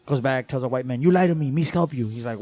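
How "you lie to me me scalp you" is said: mock angry chief. Chief threatens, louder.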